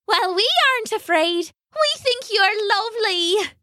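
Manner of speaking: a tiny fairy, reassuring him. Acted. Fairies reassure the lonely singer, high and gentle. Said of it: "the fairies said".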